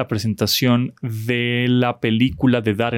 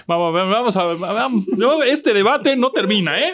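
excited exclamation; 9 semitones higher than usual. Real, not acted. Excited about endless debate.

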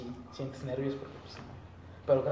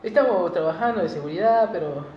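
higher, louder post-match interview; interviewed athlete voice; 6 semitones higher, 8 dB louder than usual. Pretend. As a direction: answer like a footballer after a loss. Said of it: "Ya parece pinche entrevista esto".

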